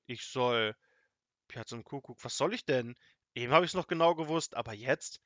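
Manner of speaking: halting, put-on struggle to remember; mildly feigned puzzlement; pretending to think hard. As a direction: play dumb, groping for the answer. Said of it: "als müsste er angestrengt nachdenken".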